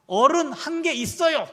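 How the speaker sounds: put-on high, loud, slow toddler announcement. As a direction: imitate a small child proudly calling it out. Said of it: "예진이가 받은 거죠". (크고 높게 또박또박 꼬마 흉내)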